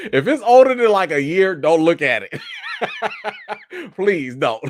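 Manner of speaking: begging through real laughter; embarrassed giggly please don't; laughing pleas. Real, not acted. Embarrassed about old videos.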